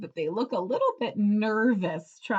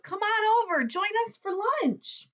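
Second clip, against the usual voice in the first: yelling out; 12 semitones higher than usual. A narrator's reading. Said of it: "Turtle spotted them and yelled out".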